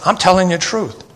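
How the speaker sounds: "truth" stressed, falling at the end. Shown as a demonstration. Preacher explaining what Paul is saying, stress on "truth". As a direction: land firmly on "truth" with a falling tone. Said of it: "his emphasis is on the truth".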